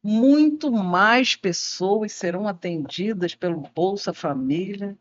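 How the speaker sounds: slow, with "muito" and "mais" leaned on; stress on muito and mais. Shown as a demonstration. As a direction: mark "muito" and "mais" like a newsreader. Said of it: "o muito e o mais marcadinho".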